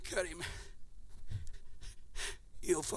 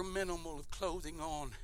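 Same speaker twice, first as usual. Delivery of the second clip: whisper; 8 semitones lower, 21 dB quieter than usual. Real, not acted. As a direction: let it fall to a whisper. Preacher drops to whisper on humiliation.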